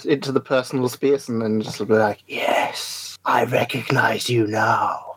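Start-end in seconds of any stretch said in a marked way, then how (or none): 2.3-5.1 slow, low, drawn-out creep voice; hammed-up sinister recognition, unhurried; mock creepy. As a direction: loom in and stretch every word. Jokes about looming into personal space.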